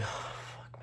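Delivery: hushed, voiceless curse; whispered dread. Retold or imitated. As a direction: let the curse out on a breath. Inner dread of coming fight.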